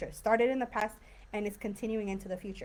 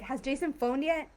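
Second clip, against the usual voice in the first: impatient; 4 semitones higher than usual. Shown as a demonstration. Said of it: "It's kind of more like that".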